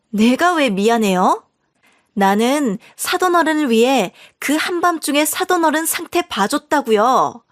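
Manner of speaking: unapologetic in-law snapping back at the narrator; defensive sister-in-law. Acted.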